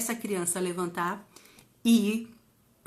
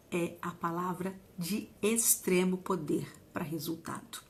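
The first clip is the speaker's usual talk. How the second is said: whispered, soft and deliberate; intense whisper; 3 semitones lower, 9 dB quieter than usual. Acted. Teacher whispering the key point to the audience, softly. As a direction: lean in and whisper the secret. Speaker stresses the key lesson.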